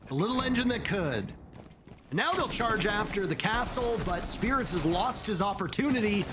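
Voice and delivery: brisk live esports commentary; play-by-play. Real, not acted. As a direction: call the round as it unfolds.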